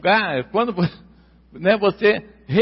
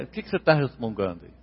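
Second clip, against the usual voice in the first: scolding father; 10 semitones lower, 8 dB quieter, much faster than usual. Retold or imitated. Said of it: "Ele pegava ele pelo cola-, pela orelha".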